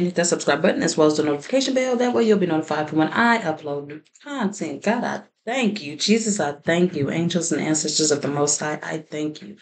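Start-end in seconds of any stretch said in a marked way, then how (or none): 4.8-9.6 prayer. Real, not acted. Opening prayer before tarot reading.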